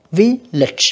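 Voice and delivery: slow Village with VIL punched; first-syllable stress. Shown as a demonstration. Teacher marking word stress, Village slowly stressed on vil. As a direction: hit vil in Village, let lage fall. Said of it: "âm một ha".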